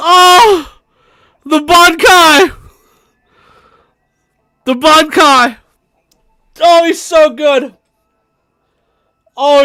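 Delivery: high, loud, gleeful hype; real overexcited outburst; hysterical delight. Real, not acted. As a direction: shout it high, barely holding back laughter. Hysterical reaction to a clip.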